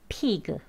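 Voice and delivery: 피그 with a long 이 vowel and a full final 그; wrong pronunciation demo. Shown as a demonstration. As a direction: say 피그 the Korean way, as two syllables. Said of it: "이렇게 하시면 안 되고".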